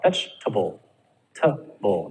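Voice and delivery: "Vegetable" with a weak tə-bəl ending; schwa in vegetable. Shown as a demonstration. Teacher models "vegetable" with schwa ending. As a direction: reduce table to təbəl. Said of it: "it then becomes schwa".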